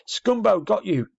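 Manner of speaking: high, slow ringing yell from the wood. Acted. A scout yells as he catches Scumbo, loud and high. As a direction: call it out across the dark. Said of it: "a yell of".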